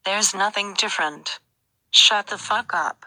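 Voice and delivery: another slightly changed voice. Acted. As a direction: shift the voice a little. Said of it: "you're changing your voice".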